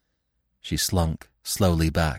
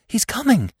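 very high, panicked hiss; frantic, strained urgent warning; 4 dB louder than usual. A narrator's reading. Marina bent over wounded Gobo, warning frantically. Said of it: "she whispered frantically".

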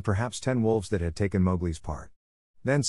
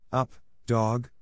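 sharp commanding call; crying out; 3 semitones higher than usual. Acted. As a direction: bark out the order. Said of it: "Mowgli cried".

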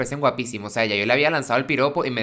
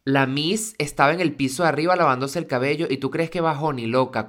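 ordinary talk

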